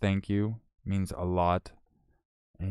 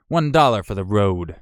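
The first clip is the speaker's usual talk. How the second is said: louder mock send-off; imitating a viewer; 7 dB louder than usual. Viewer tipping a departing streamer, lightly imitated. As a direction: lightly play the cheeky tipper. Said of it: "had to come in and say".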